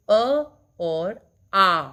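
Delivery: slow down and sound out अ और आ; slow vowel demo. Shown as a demonstration. Teacher modelling both vowels for the class, slow. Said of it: "जब आप अ बोलते हैं, तो समय कम लगता है".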